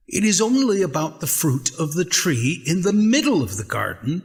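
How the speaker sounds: woman answering the snake in earnest. Acted. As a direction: explain the rule, quickly and earnestly.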